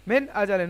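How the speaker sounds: মিন আজালিন with a short, clear "n" in মিন; don't hum the "n" of মিন before আজালিন; izhar without ghunnah. Shown as a demonstration. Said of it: "বিনা গুণনায় তাড়াতাড়ি পড়তে হবে".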